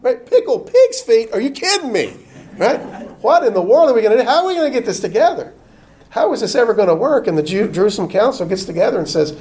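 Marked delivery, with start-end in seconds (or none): 0.0-7.3 high, fast mock panic over the menu; hammed-up horror at pork on the picnic table; mock panicked outcry. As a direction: play the alarmed Jews throwing up their hands. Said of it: "The Jews are like".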